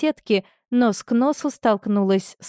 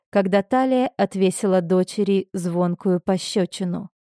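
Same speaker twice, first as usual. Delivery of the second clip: ordinary delivery, nothing marked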